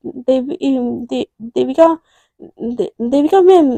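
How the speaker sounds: halting, nervous stammer, slowing down; hesitant stammer. Acted. Shy employee stammering her boss's name, nervous. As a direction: trip over her name shyly.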